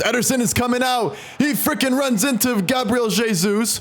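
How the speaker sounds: high, laughing in disbelief. Real, not acted. Chaotic chance, laughing.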